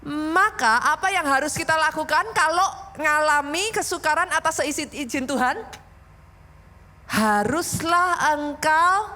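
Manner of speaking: emphatic read-aloud, slowing right down at the end; loud communal reading. Real, not acted. Pastor leads congregation reading the verse aloud, emphatically. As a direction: lead everyone reading the verse, drawing out the last words. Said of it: "sama-sama dengan suara keras".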